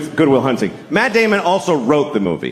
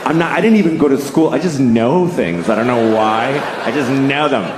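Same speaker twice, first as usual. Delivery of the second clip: Matt Damon; 3 semitones lower than usual. Retold or imitated. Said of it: "he basically sat down".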